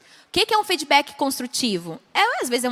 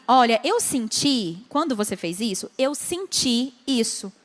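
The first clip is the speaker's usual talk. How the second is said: slow, calm sharing of feelings; gentle; 3 semitones lower, slower than usual. Shown as a demonstration. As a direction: speak gently about how you felt. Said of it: "É diferente a gente falar assim".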